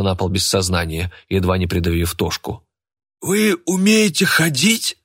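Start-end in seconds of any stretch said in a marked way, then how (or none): 3.2-5.0 high, slow, astonished voice; can't believe his eyes; amazed question. A narrator's reading. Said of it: "изумлённо спросил старика бильярдный шар".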